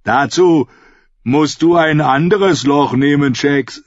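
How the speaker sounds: put-on Dornish accent. A narrator's reading. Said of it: "mit seiner breiten dornischen Aussprache".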